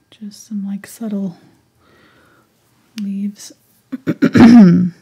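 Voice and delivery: hoarse, fading whisper of a lost voice; raspy whisper. Real, not acted. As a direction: voice giving out, rasp through it. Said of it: "I'm losing my voice today".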